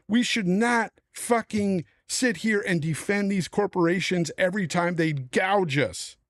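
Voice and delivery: angry gamer ranting, voice rising; pissed off rant. Real, not acted. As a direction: vent real anger at the corporations. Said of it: "I'm pissed at this".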